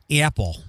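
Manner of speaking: "Apple" with a hard Michigan A; Michigan-accented "Apple", hard first vowel. Shown as a demonstration. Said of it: "to me, Michigan A's are hard".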